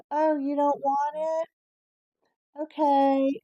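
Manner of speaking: high, loud sarcastic "oh, okay"; a touch of a snippy nurse brushing her off; mock dismissive nurse. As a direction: toss it off like a huffy nurse.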